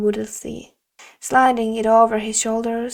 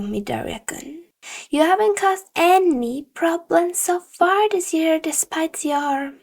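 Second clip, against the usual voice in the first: stern teacher voice pressing a cheating accusation; disappointed stern teacher; 3 semitones higher than usual. Acted. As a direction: scold him with cold disappointment. Teacher lecturing accused student.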